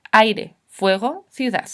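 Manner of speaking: "Aire, fuego, ciudad" slowly, each vowel pair in one beat; vowels joined. Shown as a demonstration. Teacher giving examples of diphthongs, vowels joined. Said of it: "La unión de dos vocales en un golpe de voz".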